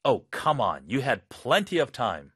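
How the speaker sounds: fed-up boss; frustrated boss. Acted. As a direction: boss rejecting a lame excuse. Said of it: "상사로서는 정말 답답할".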